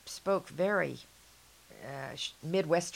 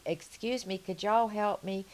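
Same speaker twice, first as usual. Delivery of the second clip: put-on Southern accent; 4 semitones higher than usual. Speaker asks store clerks for help, in a Southern accent. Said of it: "my Southern accent".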